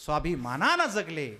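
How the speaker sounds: emphatic kirtan preacher; preaching. Real, not acted. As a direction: preach it out to the gathering, voice lifted. Preaches to the gathering.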